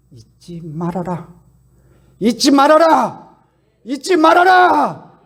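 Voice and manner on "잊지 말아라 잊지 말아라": slow and higher with each repetition, building to a shout; rising cry. Shown as a demonstration. Preacher repeating do not forget, building to a loud cry. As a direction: drive the command home louder each time. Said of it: "repeated with building force".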